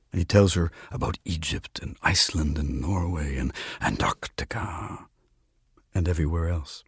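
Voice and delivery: measured storyteller's reading; quiet literary narration; story narration. A narrator's reading. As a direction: read the tale aloud, unhurried. Reads a story aloud.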